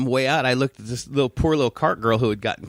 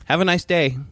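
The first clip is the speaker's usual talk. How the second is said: higher, courteous retold farewell; polite send-off; 5 semitones higher than usual. Store clerk to a complaining customer, retold polite send-off. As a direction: imitate a clerk's civil, lifted goodbye. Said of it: "Just like that".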